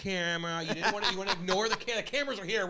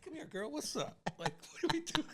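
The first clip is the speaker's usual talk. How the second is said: mock tough guy; 8 semitones higher, 4 dB quieter than usual. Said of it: "I'm like".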